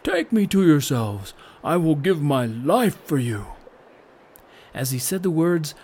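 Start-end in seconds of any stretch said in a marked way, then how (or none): 0.0-3.5 earnest self-giving plea. A narrator's reading. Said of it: "cried the cloud once more".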